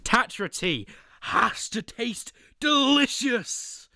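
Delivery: excited high shout. Real, not acted. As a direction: belt out the verdict. Shouts tier verdict.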